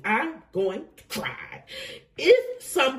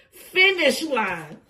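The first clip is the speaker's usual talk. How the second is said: excited call; 3 semitones higher, 3 dB louder, slower than usual. Real, not acted. Reading out a winning card.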